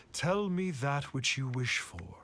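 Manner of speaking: hushed, breathy whisper of a mystic; secretive oracle whisper. Acted. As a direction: lean in and whisper the offer. Grand Adeptus addressing travelers.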